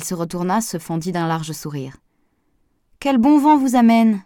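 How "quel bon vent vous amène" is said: friendly call, higher, louder and drawn out; amiable greeting. A narrator's reading. Pascal welcomes the gardener who turned up uninvited, amiably calling out. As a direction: greet him pleasantly in a raised, slower voice. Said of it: "poursuivit-elle aimablement".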